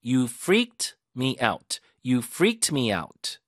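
freaked hit hard, said very slowly; stress on freaked. Shown as a demonstration. Teacher models the stress on freaked for students. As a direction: punch freaked, slow and deliberate. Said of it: "그렇게 강세 주시고".

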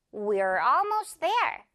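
"We're almost there" slowly, each word distinct; measured model of "We're almost there". Shown as a demonstration. Teacher gives learners the example first, carefully slow. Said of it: "조금 더 빠르게 말하자면".

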